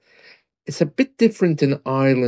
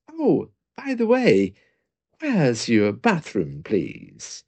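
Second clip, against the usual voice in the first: mock casual; slower than usual. Customer asks barman for the bathroom in a put-on casual tone. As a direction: toss it off as if it hardly matters. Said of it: "casually mentioned".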